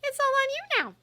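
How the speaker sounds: high, pressing, unrelenting; relentless. A narrator's reading. Hermione relentlessly pressing Umbridge, high voice. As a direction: keep pushing without mercy. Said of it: "said Hermione relentlessly".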